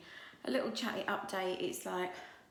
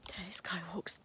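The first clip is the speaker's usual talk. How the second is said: whispering; 3 semitones higher than usual. Real, not acted. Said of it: "Don't know why I'm whispering".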